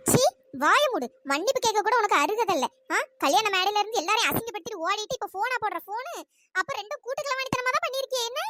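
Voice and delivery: scornful aunt ranting at her niece; angry aunt. Acted. Angry aunt berating her niece over the phone, scornful. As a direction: lash out with scorn, a mother-in-law tirade.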